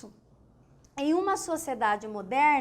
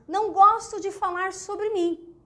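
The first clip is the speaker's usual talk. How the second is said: a first take, pitched up and a bit louder; modest-sounding example; 6 semitones higher, 5 dB louder than usual. Shown as a demonstration. To the class, the first take of the shy example, lightly raised. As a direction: set out the line as if shy about oneself. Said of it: "um exemplo bem claro".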